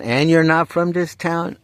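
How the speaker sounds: can't believe the stranger's not local either; astonished disbelief. Retold or imitated. Disbelief, then starts laughing.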